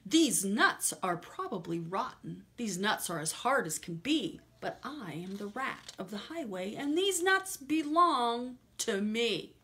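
mild mock snarl, loud and greedy; snarling rat. The highway rat snatching the squirrel's nuts with a mock snarl. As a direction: snarl over the sack of nuts.

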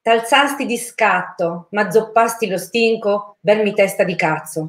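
italian poetry declamation. Pretend. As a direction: declaim it like a grand poem. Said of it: "Io vorrei declamare una poesia". (declamazione solenne e lenta)

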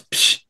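short voiceless hissed "psst"; imitated "psst". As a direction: make a quick hushing "psst" noise. Imitates a noise in story.

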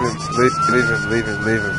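shrill falsetto yelling; squeaky high shout. Pretend. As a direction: squeak out the order to leave him. Captor shouting at struggling prisoner.

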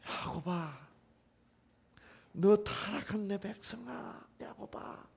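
slow lyrical address that fades out; poetic recital. Shown as a demonstration. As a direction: call out to Jacob like a poem. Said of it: "시처럼 읽으라 이 말입니다".

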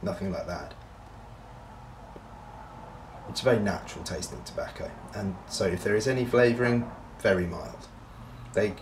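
talking around pipe stem; clenched-teeth speech; pipe in mouth. Real, not acted. Seen 1: Pipe stem clenched in mouth throughout, lowered by 9.9.

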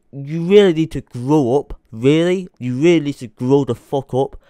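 angry scolding. Real, not acted. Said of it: "I'm pissed off".

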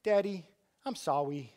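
put-on mild sweet little-kid voice; a light touch of a cute small boy saying sorry; dad imitates his younger son saying sorry, sweetly; little boy apologizing. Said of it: "but Nate's like".

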